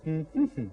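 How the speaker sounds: hum of agreement. Shown as a demonstration. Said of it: "What do you say in the morning".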